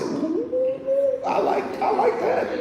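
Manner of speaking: high, laughing delight. Retold or imitated. Preacher to the heckler, laughing high with delight. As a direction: relish it with a giggle. Preacher relishes the bold kid.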